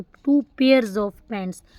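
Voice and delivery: slow, careful "two pairs of pants"; very slow correct model phrase; correct form. Shown as a demonstration. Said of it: "ऐसे बोलोगे कि टू।".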